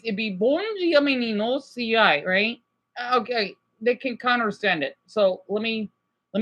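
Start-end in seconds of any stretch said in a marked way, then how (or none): 0.3-2.2 casual Portuguese phrase in a Portuguese accent; Portuguese greeting, relaxed. Shown as a demonstration. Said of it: "And then in Portuguese".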